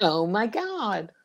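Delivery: put-on slow, light Valley Girl echo; Valley Girl accent. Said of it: "Valley Girl".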